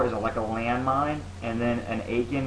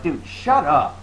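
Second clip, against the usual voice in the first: retold shout; 4 semitones higher, 5 dB louder, much slower than usual. Retells telling gamer to shut up.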